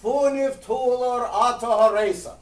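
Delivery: loud chanted reply; yelled back. Retold or imitated. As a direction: shout it back from the front. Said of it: "the president would yell back".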